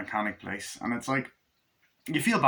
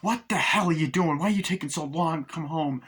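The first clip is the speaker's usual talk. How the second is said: scolding mother; 6 semitones higher than usual. Retold or imitated. Mother scolds drunk son.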